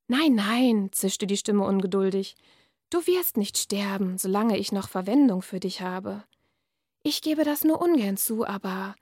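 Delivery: measured reading-aloud voice; dark fairy-tale narration; story reading. A narrator's reading. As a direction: read the passage like an author at a reading. Author reads her novel aloud.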